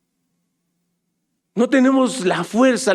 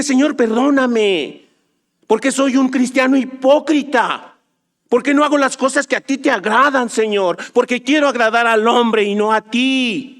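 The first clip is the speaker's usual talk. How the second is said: model prayer; 5 semitones higher than usual. Pretend. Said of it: "grita y dile".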